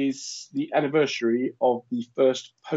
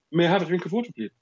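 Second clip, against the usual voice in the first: lightly posh, pitched-up enunciation; a touch of elocution-lesson voice; careful speech-therapy diction; 5 semitones higher, faster than usual. Retold or imitated. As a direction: articulate politely, as taught in speech therapy. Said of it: "to speak slowly".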